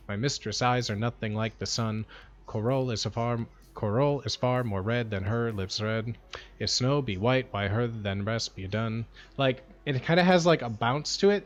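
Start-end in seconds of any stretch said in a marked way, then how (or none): 0.1-9.0 lower, softer recital with a bouncing beat; meter demo. Shown as a demonstration. Showing chat the bounce of the sonnet, soft rhythmic recital. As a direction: bounce each iamb. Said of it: "you have to fucking pronounce it right".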